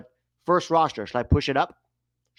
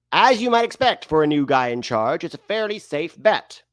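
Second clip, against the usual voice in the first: showy article read; put-on reading voice; 2 semitones higher than usual. Host reading about the new coach, hammed-up delivery. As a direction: read it out with exaggerated lilting emphasis. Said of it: "still talking like this".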